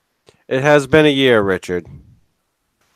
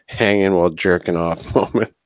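laughing whisper. Real, not acted. Laughing through his own joke.

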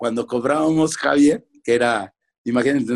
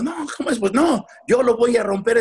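very high-pitched indignant protest; mock tirade, pitched way up; angry father; 10 semitones higher than usual. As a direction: imitate an outraged dad. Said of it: "imagínate a mi padre enojado".

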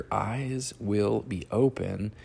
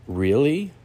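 serpent voice; 6 semitones higher, 6 dB louder than usual. Acted. Serpent voiced in Bible story.

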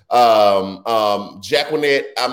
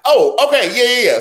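sudden recall; 13 semitones higher, 6 dB louder than usual. Real, not acted. Suddenly remembers.

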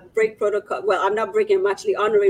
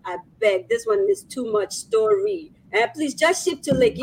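put-on Nigerian accent; 2 semitones higher than usual. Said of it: "in the Nigerian accent".

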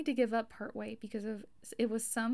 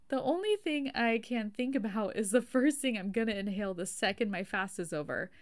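normal talking voice

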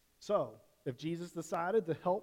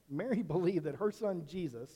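corrects "Mary" with a quick laugh; laughing at own slip, then carries on; laughing correction; 3 dB louder than usual. Real, not acted. Preacher laughs off the mix-up with the congregation, light chuckle. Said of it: "I think I said that wrong".

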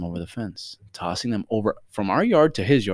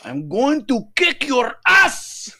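loud, high, slow broken-English threat; mimicking a furious grandfather's accented yell; imitated confident scream; 6 dB louder, much slower than usual. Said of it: "he would scream with, like, the confidence".

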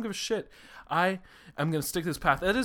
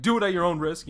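mock warning; 5 semitones higher, 6 dB louder than usual. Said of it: "I'm like".

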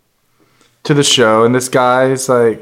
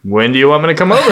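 eager; faster than usual. Retold or imitated. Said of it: "I'm like".

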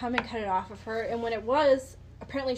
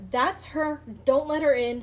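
mild mock yell, raised and louder; retold scream; 3 semitones higher, 5 dB louder than usual. Frightened victim spotting her captor in hospital, half-screamed alarm. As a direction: imitate a panicked cry without truly screaming. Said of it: "starts to scream".

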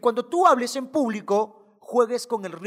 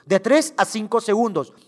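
"De tres a cinco segundos" said louder with more punch; louder, emphatic take; 5 dB louder than usual. Shown as a demonstration. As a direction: repeat it firmly for emphasis. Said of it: "¿Y cuánto tiempo debo mirar".

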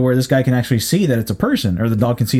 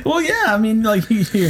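laughing; 9 semitones higher than usual. Real, not acted. Laughing at dog joke.

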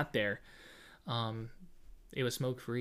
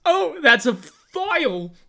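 high laughing mock gasp; 10 semitones higher, 9 dB louder, slower than usual. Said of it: "Sarah goes".

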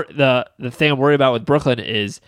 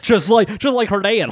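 teasing; 9 semitones higher than usual. Real, not acted. Teasing the co-host.

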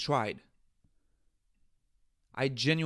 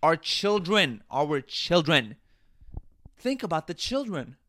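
mocking repetition; 3 semitones higher, 4 dB louder than usual.

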